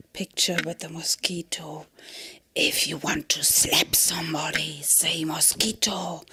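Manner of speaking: hushed unvoiced whisper to the camera; conspiratorial whisper. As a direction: whisper it like a secret joke.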